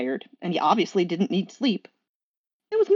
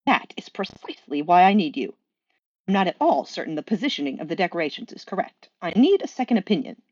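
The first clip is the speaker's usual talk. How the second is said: Aziraphale's voice. Acted. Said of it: "I will do voices".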